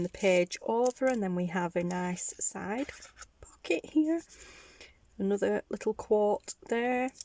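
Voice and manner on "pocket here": whisper. Real, not acted. Showing items to viewers.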